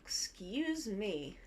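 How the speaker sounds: slow, yawned through the words; yawning. Shown as a demonstration. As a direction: stretch it out in a big yawn. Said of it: "Yawning like this".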